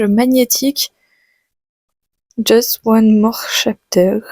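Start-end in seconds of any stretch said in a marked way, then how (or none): 2.4-4.2 pathetic English accent. Real, not acted. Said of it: "J'ai un accent anglais, euh, pathétique".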